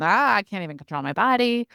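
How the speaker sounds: mildly mimicked overwhelmed kid, bursting out on "Ah"; overwhelmed, giggly child. Acting out a child whose nervous system is overloaded, mildly frantic. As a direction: lightly act out an overexcited child. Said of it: "super overwhelmed and giggly and loud".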